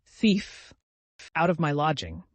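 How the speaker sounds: high shouts for the police; shrill mock alarm; yelling. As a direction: scream for the police. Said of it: "yelled Amalia Ivanovna".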